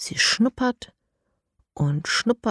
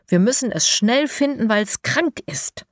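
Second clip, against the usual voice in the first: urgent, higher and quicker pleading; excited; 5 semitones higher than usual. Acted. Elias tells Lara the piglet ran away, excited. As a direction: rush it out, worried for the piglet. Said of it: "antwortet Elias aufgeregt".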